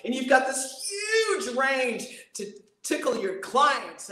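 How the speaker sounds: slow, sweeping up and down through the voice; wide sweeping range. Shown as a demonstration. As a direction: show off the whole range. Demonstrates huge voice range.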